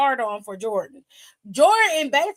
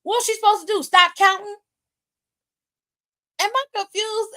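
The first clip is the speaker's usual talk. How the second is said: incredulous; 7 semitones higher than usual. Real, not acted. Defending the referee, incredulous.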